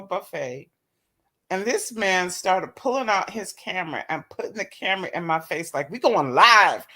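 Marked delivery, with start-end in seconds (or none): 5.9-6.9 mock hype man. Mimicking date filming her live.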